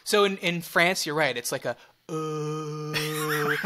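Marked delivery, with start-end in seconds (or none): 2.1-3.6 long, slack-lipped French "uh"; French warm-up tone. Shown as a demonstration. Say it to yourself before the sentence, French tone. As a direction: hold a lazy French vowel with loose lips. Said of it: "a tone that you will say".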